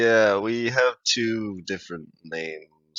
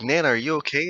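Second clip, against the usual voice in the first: raised, tentative check-in; lightly acted concern in a higher voice; worried grandchild; 8 semitones higher than usual. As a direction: ask carefully, pitched up.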